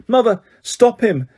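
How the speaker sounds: put-on boy begging his mother; desperate screaming. A narrator's reading. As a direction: shriek your innocence. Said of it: "screamed the boy".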